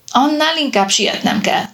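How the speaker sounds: put-on an old captain's impatient insistence. A narrator's reading. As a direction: hurry him along, no patience left. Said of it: "türelmetlenkedett Rader".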